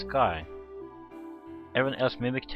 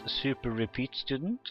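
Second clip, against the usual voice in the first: mildly puzzled, rising at the end; puzzled question; 3 semitones higher than usual. Acted. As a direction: read it as a questioning echo. Acted surprised question, first take.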